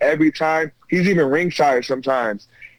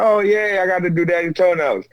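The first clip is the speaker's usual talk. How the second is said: lightly imitated delighted little girl; a touch of gleeful four-year-old; happy little daughter; 2 semitones higher than usual. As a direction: echo a small child's happy cheer. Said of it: "She's all happy".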